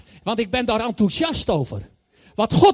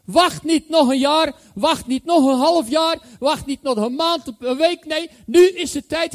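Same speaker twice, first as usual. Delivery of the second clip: louder urgent sermon call, hammering each line; preaching at full force; 4 dB louder than usual. Acted. Preacher urging congregation now. (dringend en luid preken)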